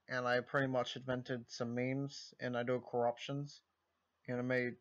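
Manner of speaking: lightly voiced streamer impression, stopping and starting; Joel impression. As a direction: do a half-hearted, deadpan streamer impression. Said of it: "wanted my Vinesauce Joe impression".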